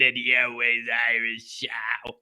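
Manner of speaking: hushed show name; whispered show title. Acted. Host naming his show, whispered.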